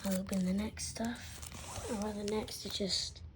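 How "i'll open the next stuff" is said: whispering. Acted. Whispered unboxing aside.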